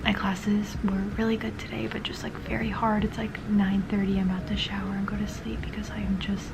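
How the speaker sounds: quiet whisper so as not to wake the roommate; hushed late-night whisper. Real, not acted. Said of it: "which is why I'm trying to be quiet".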